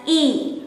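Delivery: the letter said as a long "ee"; vowel demonstration. Shown as a demonstration. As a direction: say a clear, isolated "ee" sound. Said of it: "we pronounce it as".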